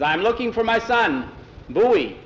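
high, loud seafarer's hail; hearty sea captain. A narrator's reading. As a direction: greet them like a jolly old salt. Captain announces himself in hall.

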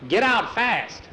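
high, drawn-out urgent yell; acted yell. A narrator's reading. Nikolai yelling at the boys to escape, urgent yell. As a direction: yell it slowly, pitch jumping up. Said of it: "Nikolai started yelling at him".

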